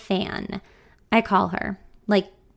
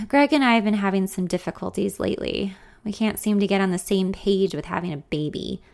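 sad. Acted. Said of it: "she says sadly".

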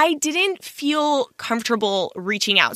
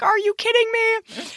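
disappointed; 11 semitones higher than usual. Retold or imitated. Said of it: "I was just so sad".

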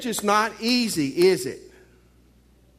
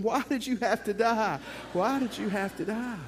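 higher mock wail of grief; mock crying; 3 semitones higher, 3 dB quieter than usual. Mourner at the first husband's grave, higher mock crying. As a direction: pitch it up into a hammed-up lament. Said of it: "He's crying".

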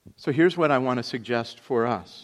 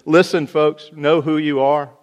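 urgent exhortation; 5 semitones higher, 11 dB louder than usual. Retold or imitated. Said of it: "He says".

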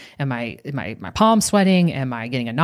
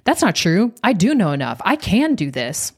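higher pitch, stress on "not", "do" and "can"; emphatic rebuttal; 4 semitones higher than usual. Retold or imitated. Imitating a client rejecting her own statements, emphatic. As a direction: contradict it firmly, leaning on "do" and "can".

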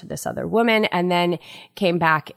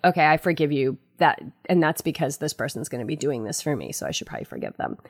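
grudging forgiveness; 4 semitones lower, 3 dB quieter, faster than usual. Acted. Voicing the ego's conditional forgiveness.

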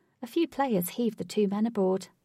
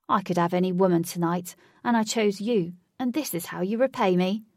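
resentful; 6 dB louder than usual. Acted. Huey resentful.

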